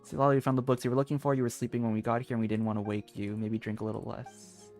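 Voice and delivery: usual speaking voice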